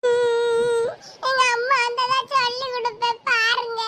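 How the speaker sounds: acted childish crying; tearful threat. Crying child threatens to tell her mother, tearful sulk. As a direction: threaten to tell through a sulky whimper. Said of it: "அழுதுகிட்டு போறா".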